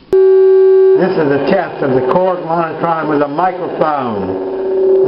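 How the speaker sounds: mic run through a Monitron monitor; through a Korg Monitron mic. Shown as a demonstration. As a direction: speak through the Monitron speaker. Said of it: "The first test will be the microphone connected to the Korg Monitron".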